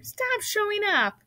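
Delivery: high, slow scolding; cried out. A narrator's reading. Mother to show-off Avery, high scolding cry. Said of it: "cried his mother".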